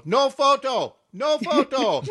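high, drawn-out mock guard call; imitated guard's call. Chapel guard to tourists taking flash pictures, imitated high call. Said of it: "in their broken English, you'd hear these guards".

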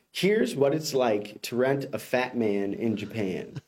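slow deadpan reading of "Here's what it's like to rent a fat man in Japan"; slow headline read. Shown as a demonstration. Host reads the headline to the co-host slowly. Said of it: "So headline reads".

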